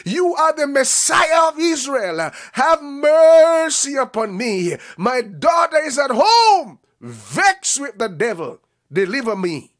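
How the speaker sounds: loud pleading cry to Jesus, slow; woman crying for mercy. Acted. Mother begging Jesus loudly to heal her daughter. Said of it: "She said".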